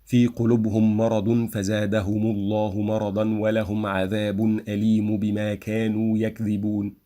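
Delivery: words linked, full vowel endings like مرضا and عذاب; read with diacritics. Shown as a demonstration. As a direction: recite مرضا and عذاب with case endings, flowing. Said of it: "I will read with diacritics".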